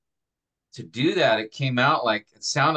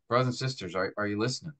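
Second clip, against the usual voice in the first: softer, hushed question to the church; quiet; 4 semitones lower, 6 dB quieter, much faster than usual. Shown as a demonstration. Pastor showing students a quiet pulled-back appeal. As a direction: drop to a soft, quiet ask. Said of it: "and quietly say".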